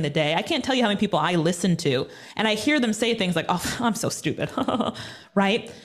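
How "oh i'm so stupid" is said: imitating a self-deprecating giggle; laughing self-put-down. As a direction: laugh it off while putting yourself down. Mimics people's laughing self-put-downs.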